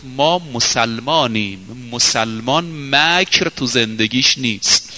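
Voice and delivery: calm slow answer to the angry mother; calm steady reply. Acted. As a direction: answer her with quiet dignity.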